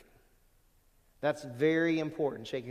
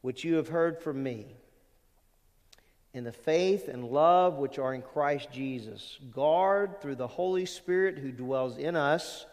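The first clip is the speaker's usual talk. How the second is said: slow, deliberate reading of the verse; scripture reading; slower than usual. Acted. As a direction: read the verse slowly and solemnly. Reads scripture aloud slowly.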